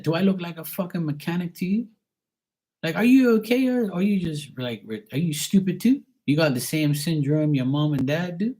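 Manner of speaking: high-pitched, exasperated questions; retold incredulous scolding. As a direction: re-enact berating a brother in disbelief. Retold quarrel with brother.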